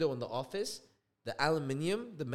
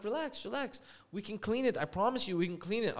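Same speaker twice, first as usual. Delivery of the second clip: retold placating; 5 semitones higher than usual. Painter placating angry homeowner.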